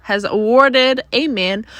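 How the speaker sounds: words stretched through a yawn; talking through a yawn. Real, not acted. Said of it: "sorry, yawning".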